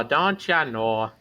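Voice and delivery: slow Milwaukee accent; slow Milwaukee don't you know. Shown as a demonstration. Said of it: "Milwaukee accent in my head".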